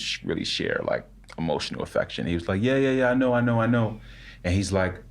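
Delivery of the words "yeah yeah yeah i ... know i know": grandfather voice. Retold or imitated. Grandfather brushing off "I love you.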